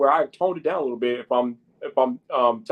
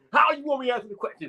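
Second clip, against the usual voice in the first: very high, cranked-up, amped-up energy delivery; 11 semitones higher than usual. Speaker showing viewers two ways of answering a question: turned up a notch. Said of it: "turn it up a notch and talk to y'all like this".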